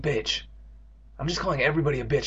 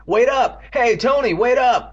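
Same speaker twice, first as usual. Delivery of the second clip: raised, higher shout; calling out; 10 semitones higher, 6 dB louder, slower than usual. Acted. Boy chasing his brother, calling out. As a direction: call after someone getting away.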